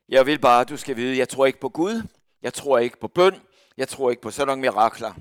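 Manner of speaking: loud, emphatic declaration of unbelief; defiant disbelief. Retold or imitated. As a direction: insist you believe in nothing, loudly. Sceptical lady declares disbelief. (høj, trodsig vantro)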